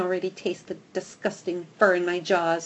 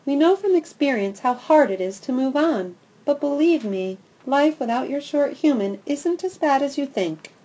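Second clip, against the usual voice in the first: kindly; 6 semitones higher, 4 dB louder than usual. Acted. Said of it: "Patches says kindly".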